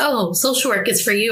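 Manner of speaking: ordinary delivery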